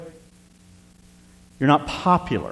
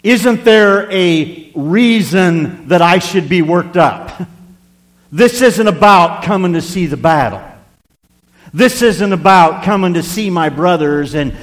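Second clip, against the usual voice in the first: louder, building passion; fiery preaching; 2 semitones higher, 4 dB louder than usual. Acted. Preacher making David's cause burn, louder. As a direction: preach it with fire.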